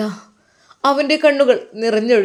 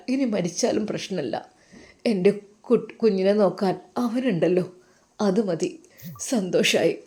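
lower, soft fatherly comfort; 4 semitones lower, 5 dB quieter than usual. Acted. Father comforting his crying daughter, lower and tender. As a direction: soothe her like a gentle old father.

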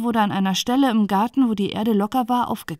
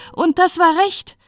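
high, loud rising cry; overloud call; 9 semitones higher, 5 dB louder than usual. Acted. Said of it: "immerfort überlaut rief".

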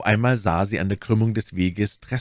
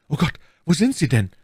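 high, anxious searching cry; desperate call; 7 semitones higher, 4 dB louder than usual. A narrator's reading. Young man cannot find Constanze, desperate call.

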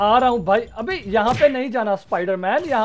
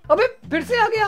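laughing taunt; 10 semitones higher than usual. Pretend. Gloating at an enemy coming back.

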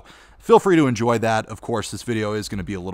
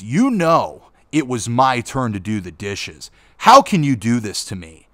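louder, retold mom yelling in a fake fight; mock mom yell; 3 semitones higher, 7 dB louder than usual. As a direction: shout it like mom picking a silly fight. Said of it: "I hear my mom yelling at my dad".

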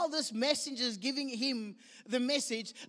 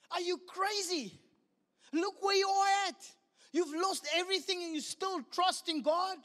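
higher, disbelieving scold; incredulous friends; 4 semitones higher than usual. Acted. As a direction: push back like he's lost his mind. Friends scolding Job's faith.

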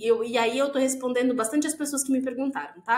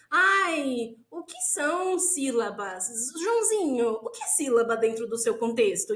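lightly mocked dreamy teacher, lingering on words; gently hammed-up, drawn-out questioning; experimental teacher. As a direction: parody a progressive educator putting a question to a pupil. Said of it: "ela realmente é experimental, é uma coisa muito mais assim".

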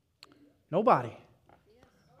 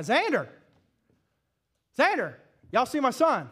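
voice getting high; 3 semitones higher, 3 dB louder than usual. Retold or imitated. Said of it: "my voice started getting kinda high".

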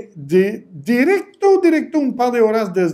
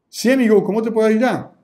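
higher, warm "Sí, amigo"; friendly seller; 5 semitones higher, faster than usual. Shown as a demonstration. Coach models the friendly chat greeting, warm and bright. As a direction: welcome the customer as a friend. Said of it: "Al menos dile la palabra, "Sí, amigo".

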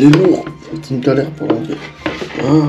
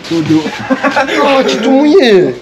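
high laughing shout; 8 semitones higher, 3 dB louder, slower than usual. Real, not acted. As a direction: burst out laughing. Laughing at soaked friend.

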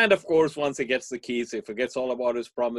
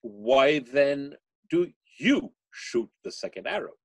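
slow, gentle voice of the Buddha; a hint of a wise teacher asking slowly; calm Buddha; 3 semitones higher, 4 dB louder than usual. Buddha slowly asking his disciple, unhurried and calm. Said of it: "And the Buddha asked".

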